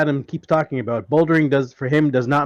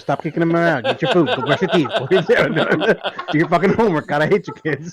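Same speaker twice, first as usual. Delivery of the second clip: exasperated parent; faster than usual. Pretend. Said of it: "I have kids. I can do it all fucking day".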